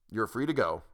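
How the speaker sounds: bestow it like a priest over a congregation; mild sermon-like calm; solemn benediction. Acted. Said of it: "as if he were delivering a benediction".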